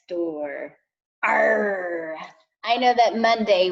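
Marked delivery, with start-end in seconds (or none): 1.2-2.2 lightly growled pirate "Arr"; a drawn-out storytime pirate cry. Acted. Teacher greeting kindergartners for pirate storytime, playful pirate cry. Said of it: "try my best to talk like a pirate".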